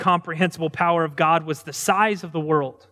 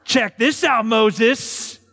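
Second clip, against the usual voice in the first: God showing off; 3 semitones higher, much slower than usual. Acted. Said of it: "the equivalent of God saying this".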